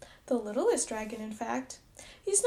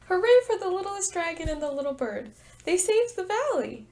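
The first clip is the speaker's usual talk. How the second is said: fast loud cheer; 5 semitones higher, 4 dB louder than usual. Real, not acted. Teacher cheers the story ending.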